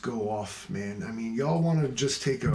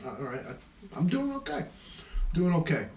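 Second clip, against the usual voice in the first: mock squeaky reply; 5 semitones higher than usual. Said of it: "I was".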